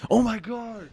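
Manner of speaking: high excited squeal of recognition; excited fan gasp. Retold or imitated. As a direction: act out a starstruck fan. Fans recognizing him, retold.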